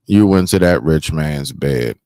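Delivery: loud, slow, disbelieving; incredulous loud scolding. Real, not acted. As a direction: hammer it home slowly. Host scolds the guest, incredulous.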